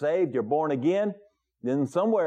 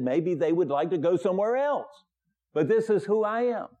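firm, raised declaration of faith; emphatic; 4 semitones higher than usual. Retold or imitated. Manager telling the pastor who he is, emphatic. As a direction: retell it with the manager's conviction. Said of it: "And he was very emphatic about that".

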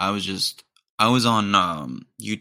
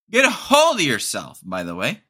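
louder repeat; 3 semitones higher, 4 dB louder than usual. Shown as a demonstration. Scolding the gym guy, louder the second time. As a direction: really push the Get a hold. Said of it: "louder repeat".

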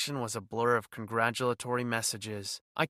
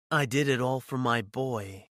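villain's confession; 4 dB louder than usual. A narrator's reading. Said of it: "he confessed".

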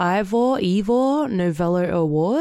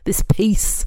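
a breathy whisper. Real, not acted. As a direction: whisper it close to the mic. Whispered aside.

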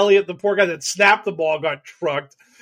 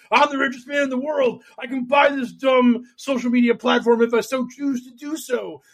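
mock shout; 6 semitones higher than usual. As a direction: yell it like a bragging billionaire.

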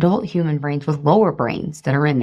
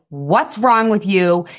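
lightly raised, drawn-out parental scolding; mock scolding yell; slower than usual. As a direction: scold slowly, as if telling off a child. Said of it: "I'm not yelling at him".

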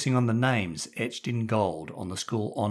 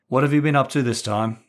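stern headmaster; 4 semitones higher, 6 dB louder than usual. Acted. Headmaster interrogating pupil.

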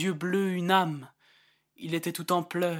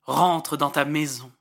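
crowd cry; 3 semitones lower, 5 dB louder than usual. Acted. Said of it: "Et le peuple cria".

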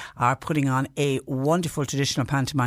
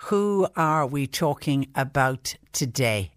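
put-on overbright kids party host; slower than usual. Host rereads the panto clue.

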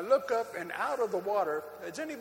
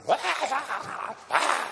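laughing; 11 semitones higher, much slower than usual. Retold or imitated. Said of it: "I'm going".

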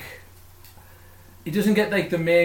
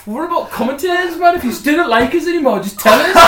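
high playful; 13 semitones higher, 9 dB louder than usual. Real, not acted. Mock plea to listeners.

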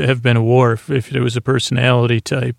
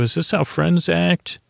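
higher, lightly voiced questioning; mock reproach; 5 semitones higher, 4 dB quieter than usual. Locals question Riker over arresting Wesley, mildly reproachful. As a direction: ask it high and without force, as a retold reproach.

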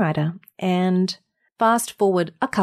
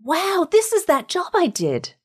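slow, higher mock wonder; retold amazement; 10 semitones higher than usual. Singer recalls hearing her voice, slow and high in wonder. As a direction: relive the moment of realising, drawn out. Reenacts her own discovery.

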